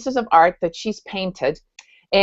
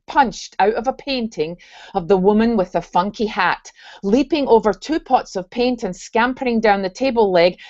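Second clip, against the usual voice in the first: put-on reading a story aloud in a light Scottish accent. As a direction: narrate it with a gentle Scottish lilt. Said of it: "I'm gonna read this in my Scottish accent".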